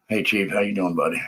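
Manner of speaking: slightly winded, catching breath. Real, not acted. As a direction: talk while still panting a little. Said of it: "I'm out of breath".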